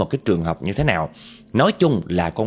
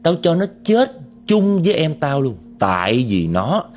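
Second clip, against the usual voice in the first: vengeful ghost woman. Acted. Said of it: "cái vong nữ ... trả lời đó".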